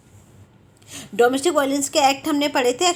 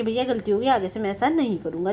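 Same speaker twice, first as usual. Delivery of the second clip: lower, mildly coaxing apology; a lightly acted, soothing promise to behave; affectionate apology; 3 semitones lower than usual. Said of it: "आपको प्यार से समझाता है". (हल्के से प्यार से समझाते हुए)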